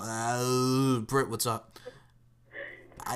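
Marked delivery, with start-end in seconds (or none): 0.0-1.8 slurred drawn-out "uh" greeting; lightly voiced dopey boxer hello; Rocky Balboa. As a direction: imitate an accidental boxer-like greeting. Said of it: "Kinda like Rocky Balboa".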